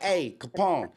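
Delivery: retold griping, high and loud; loud complaint. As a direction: complain loudly for everyone to hear. Retold loud complaint to tour mate.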